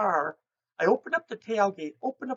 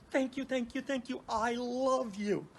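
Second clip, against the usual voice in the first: tender owl thanks; 4 semitones higher, 4 dB quieter than usual. Retold or imitated. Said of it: "which is him saying".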